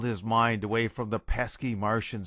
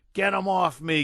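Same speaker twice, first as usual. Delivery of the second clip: high, loud panicked scream; 7 semitones higher, 4 dB louder than usual. A narrator's reading. General tearing his clothes off, screaming. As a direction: scream like he's being swarmed.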